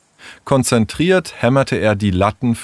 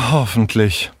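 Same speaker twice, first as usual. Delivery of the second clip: resigned sigh on the word. Acted. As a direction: sigh it out, doubtful. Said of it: "seufzte Leo".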